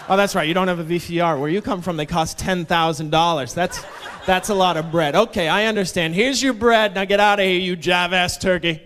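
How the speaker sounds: hammed-up scorn, ending in dismissal; sarcastic outburst. Barista handing back money to customer, loudly scornful.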